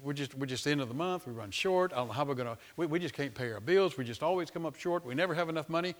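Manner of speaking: soft, defeated complaining; mock lament. A believer moaning to family about bills, soft and defeated. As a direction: sigh it out like you're broke. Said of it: "you might sit there and go".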